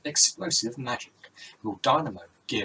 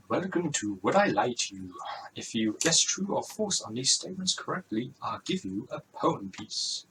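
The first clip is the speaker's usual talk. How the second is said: badly faked Welsh lilt; game-show host in a wobbly Welsh accent; terrible Welsh accent. Rob Brydon welcomes Rosie to his quiz, bad Welsh accent. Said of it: "that's a terrible Welsh accent".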